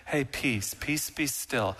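soft, gentle, slowed murmur; a meek, quiet hush; meek and mild. Shown as a demonstration. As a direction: soothe it like a timid mild man. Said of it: "meek and mild Jesus".

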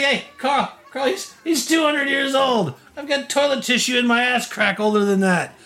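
very high cackling goblin taunt; mocking goblin. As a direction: call to his buddy, laughing cruelly. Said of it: "He's like".

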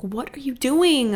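exasperated complaint at noisy neighbors, pitch lifting. Real, not acted. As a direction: demand it of the noisy people upstairs, fed up.

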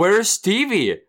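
high, drawn-out mock question; acted questioning call. Co-host voicing people asking after Stevie, high mock question. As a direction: draw it out high like a show title.

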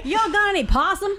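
high, hammed-up Southern twang; exaggerated Southern accent. Co-host mocking how Southerners sound at lunch, exaggerated Southern accent. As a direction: put on a cartoonish Southern accent. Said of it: "the way he heard us talk".

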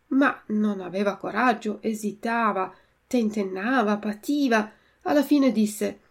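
plain reading voice

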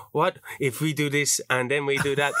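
mock a co-host's vaguely French accent; lightly put-on French-ish accent, teasing; imitating weird French accent. Co-host mimics the accent just used, weird French accent. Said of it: "what accent are you doing there?".

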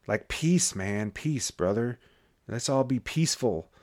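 very soft, laid-back delivery; mock mellow peacenik. Host playing on the word peace, mock mellow. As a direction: drop to a hushed, easygoing murmur.

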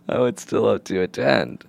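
half-laughing, tearful whimper; weepy, breath-only plea played for laughs; mock crying. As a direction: pretend to cry, voice giving out into a whisper. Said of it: "You're crying now".

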